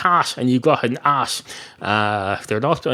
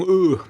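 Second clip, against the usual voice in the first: caveman grunt; 5 semitones higher than usual. Shown as a demonstration. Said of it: "or just going".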